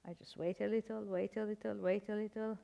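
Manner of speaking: soft, patient repeated wait a little; quiet self-reassurance. Retold or imitated. Exile telling herself quietly to wait out the war. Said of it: "so I said".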